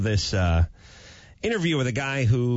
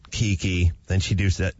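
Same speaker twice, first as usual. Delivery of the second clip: ordinary delivery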